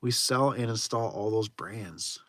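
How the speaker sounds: slow puzzled reading. Shown as a demonstration. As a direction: mutter it again, still baffled. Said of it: "I am so still confused".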